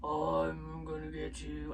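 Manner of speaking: put-on big bad brute voice; movie tough guy. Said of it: "I think he talks like that in the movie".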